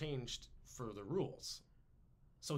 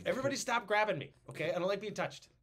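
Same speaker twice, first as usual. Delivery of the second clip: higher, fast, touchy complaint; flustered whiny man; 3 semitones higher, 4 dB louder than usual. Retold or imitated. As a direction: whine like someone being manhandled. Acting the flustered sat-on man.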